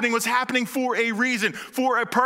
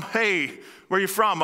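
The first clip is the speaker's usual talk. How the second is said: breezy everyday question to a stranger; casual small talk. Shown as a demonstration. Preacher showing a casual hometown question. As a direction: toss it off like chatting at a party. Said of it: "Now, this is not a".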